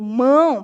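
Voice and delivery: MÃO with the vowel let out through the nose; nasal ão in "mão"; nasal sound. Shown as a demonstration. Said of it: "pelo seu nariz".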